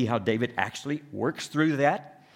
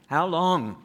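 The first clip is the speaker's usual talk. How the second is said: emphatic refrain; 5 semitones higher, 5 dB louder than usual. Real, not acted. Preacher's rhetorical refrain.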